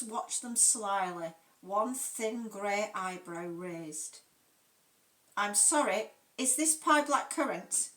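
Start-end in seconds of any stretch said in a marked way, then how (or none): 5.4-7.9 trembling, nervous question; quivering voice. Acted. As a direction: voice shaking with nerves. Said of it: "her Welsh voice quivering".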